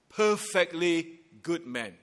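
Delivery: slow, each word of "perfectly good man" weighed; slow emphatic stress. Acted. Preacher to congregation, slow weighty stress on "perfectly". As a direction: press down on "perfectly" and let it fall.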